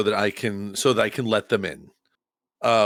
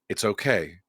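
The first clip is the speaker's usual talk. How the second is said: psychic big brother; 3 semitones lower than usual. Acted. Player reaching out to it in a psychic big brother voice. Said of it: "in my best psychic big brother voice".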